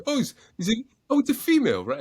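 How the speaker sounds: high, loud, puzzled mom voice; unsure mother squeaking it out high; imitating mom. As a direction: mom puzzling over the candidate. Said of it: "She goes".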